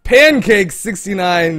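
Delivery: loud, slow winner call; shouted announcement. Real, not acted.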